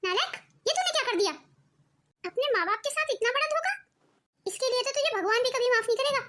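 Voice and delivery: indignant reproach, not shouted; angry. Acted. Mother to son who cheated his parents, angry. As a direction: scold him for the betrayal. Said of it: "इतना गुस्सा मत कीजिए".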